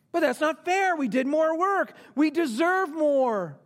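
high, hammed-up whining protest; indignant complaint. Workers answering back to the master, acted indignation. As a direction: object like a shortchanged worker. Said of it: "what their great complaint was".

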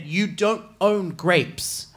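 slow, deliberate put-down; slow retort. Retold or imitated. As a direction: spell it out slowly to him. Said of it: "And I said".

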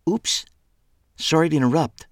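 high, startled apology; embarrassed oops. A narrator's reading. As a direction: Megan backs off, flustered at interrupting. Megan caught intruding, embarrassed.

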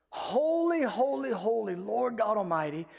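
exalting scripture cry; worshipful acclamation. Acted. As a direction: open high in praise and ease down. Repeats the creatures' worship cry.

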